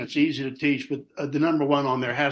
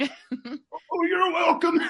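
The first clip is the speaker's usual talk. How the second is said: sweet falsetto reply; much slower than usual. Retold or imitated. Mock daughter's thanks scene.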